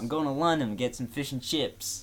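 British accent attempt. Shown as a demonstration. Repeating a line on request, attempted British accent. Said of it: "in a British accent".

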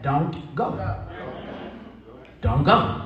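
low, measured refusal; a hint of a father laying down the law; low-pitched parental no; lightly voiced firm dad. Stern dad refuses his daughter.

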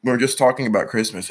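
talking through hiccups; words broken by hiccups. Real, not acted. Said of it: "Got the hiccups or something".

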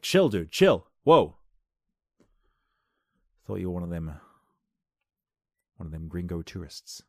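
loud laid-back surfer dude; calm her down like a chill dude; orangutan. Retold or imitated. Orangutan soothing the local lady, loud then laid-back. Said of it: "the orangutan was like".

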